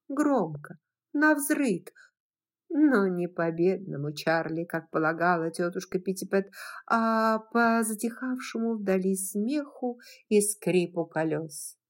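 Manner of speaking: plain reading voice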